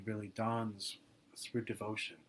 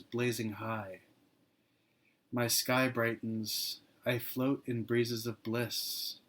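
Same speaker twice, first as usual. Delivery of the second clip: poem reading. Acted. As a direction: give each image room, unhurried and reverent. Reads devotional poem aloud.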